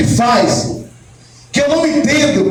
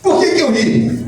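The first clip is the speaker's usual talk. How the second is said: laughing; 6 semitones higher than usual. Real, not acted. Laughing at the Bible passage.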